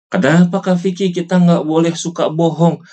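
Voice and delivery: lightly voiced curious child; a hint of an eager kid asking the teacher; child's question. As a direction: ask like a pupil wondering.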